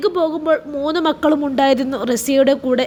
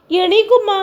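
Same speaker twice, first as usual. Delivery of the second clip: higher and louder, a rising panic; alarmed call; 6 semitones higher, 4 dB louder than usual. A narrator's reading. Daughter urgently calling her unmoving mother, alarmed and louder. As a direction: shake her awake with your voice.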